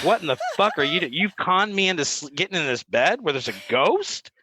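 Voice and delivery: mock outburst, settling by the end; retold freak-out. Storyteller voicing a friend conned into a haunted bed, freaking out. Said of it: "Ernie's freaking out".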